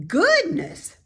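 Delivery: high, loud piggy voice; a young pig, eager and impressed; bright squeaky pig voice; Wilbur the pig. A narrator's reading. Wilbur amazed.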